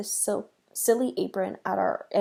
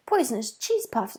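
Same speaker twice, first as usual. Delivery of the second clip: mock shriek; 3 semitones higher, 3 dB louder than usual. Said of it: "I shrieked into the phone".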